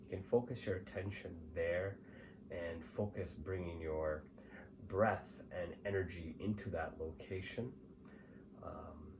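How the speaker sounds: calm, measured meditation guide; guided meditation. Acted. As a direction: lead the listener gently, pausing between phrases.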